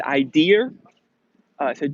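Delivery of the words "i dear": imitating New England teachers, "dear" ends in an added R; New England accent. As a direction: say "I dear" for idea, with an intrusive R. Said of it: "all my teachers had, they said".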